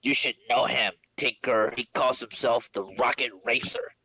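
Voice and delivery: whispered name, breathless; conspiratorial whisper. Acted. Wheel naming his rival to the Tinkerer, whispered. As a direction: let the name out under your breath.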